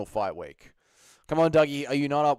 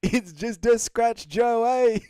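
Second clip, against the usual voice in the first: put-on higher, slow New Zealand accent shrug-off; Dan Hooker accent; 10 semitones higher, 8 dB louder, slower than usual. Streamer quoting the fighter to Joe, New Zealand accent. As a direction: play it down like a Kiwi fighter. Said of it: "Dan Hooker can only make one facial expression".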